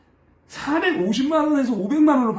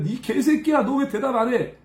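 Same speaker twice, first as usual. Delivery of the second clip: retold scolding, slightly raised pitch; mock angry cursing; 3 semitones higher than usual. Coworkers cursing the assistant for not answering, mock angry. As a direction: imitate an irate coworker swearing. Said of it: "이러면서 막 욕하는 거야".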